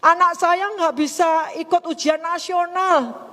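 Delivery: high, slow mock wail; imitated crying. Widow explaining her child cannot sit exams, imitated crying. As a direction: wail it slowly, imitating someone in tears. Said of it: "Dia nangis".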